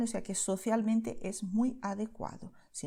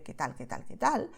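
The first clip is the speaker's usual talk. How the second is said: weary repetition; 6 semitones lower than usual. Shown as a demonstration. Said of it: "para no repetir siempre".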